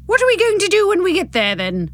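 high, fast, voice straining; strained voice cracking. Acted. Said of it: "the strain making my voice crack".

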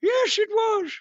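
high, prim British lady voice; British woman accent. Shown as a demonstration. Host answers his co-host's praise in the British lady accent. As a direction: answer like a haughty upper-class Englishwoman. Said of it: "British woman, uh, voice that you did".

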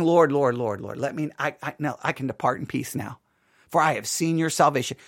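soft, low, hushed prayer of Simeon; low, hushed and content; quiet prayer. Retold or imitated. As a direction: pray it softly, at peace.

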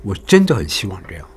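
真 gently accented, not dragged; light tap on 真. Shown as a demonstration. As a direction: give 真 a short nod of stress. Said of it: "帮我们这个重音点出来".

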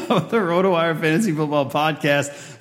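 real laughter under the intro; laughing through words. Real, not acted. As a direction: still giggling while reading the show name. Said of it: "I'm laughing a lot".

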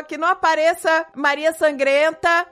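lightly voiced small child praying, breaking into laughter; imitated little child. Mother quoting a small boy's bedtime prayer, lightly childlike and amused. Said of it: "como é que ele falou?".

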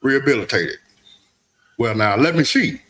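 put-on weary old convict, unhurried; Morgan Freeman voice. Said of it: "excellent Morgan Freeman voice".

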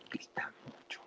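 a mock whisper, breathy and unvoiced; susurro burlón. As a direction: murmur it like a secret complaint. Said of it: "la compañía dijo". (lo dice en susurro, casi sin voz)

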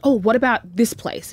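a mildly eager pitch for the place; imitating an excited friend proposing a spot; excited suggestion. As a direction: sell the idea with a light lift. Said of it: "you're, like, really excited by it".

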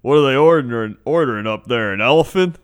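loud, incredulous customer griping in line; hammed-up indignant complaint; mock exasperation. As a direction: blurt it out as an impatient queuer. Imitates impatient man in line.

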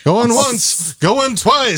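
high auctioneer call. Pretend. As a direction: call it out like closing a bid. Auction call-out closing bid.

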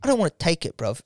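unimpressed Jamaican-London geezer; put-on Jamaican English; Jamaican English accent. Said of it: "that really cool accent".

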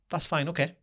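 imitating an unruffled, easygoing reply; calm. Dad answering a complaining driver without confrontation, calm. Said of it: "in a calm way, just went".

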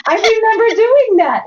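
high, laughing through the memory. Real, not acted. Mother recalling toothbrush cleaning, laughing. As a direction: giggle it out. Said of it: "my stomach now hurts".

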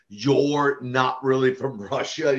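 slow, lightly imitated Russian-accented disbelief; broken Russian accent. Wrestler imitating a let-down fan, mild broken Russian accent. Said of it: "she had kind of this broken accent".

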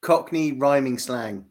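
"Cockney rhyming slang" said slowly and distinctly; slow clear repeat. Shown as a demonstration. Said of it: "say that one more time".

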